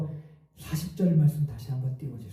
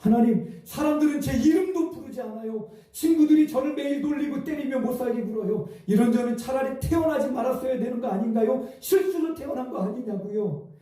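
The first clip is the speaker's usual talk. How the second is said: put-on higher, a crying boy's plea; wailing to God; 6 semitones higher than usual. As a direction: pour out the hurt, raised in pitch. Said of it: "이렇게 울부짖었대요".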